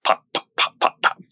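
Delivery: voiceless little mouth pops; imitated popping noise. Describing the unplugged coffee pot, popping imitation. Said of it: "making that popping noise when it gets hot".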